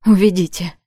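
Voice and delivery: loud, short command; curt order. Acted. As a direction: bark the order. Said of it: "бросил короткий приказ". (резкий приказ)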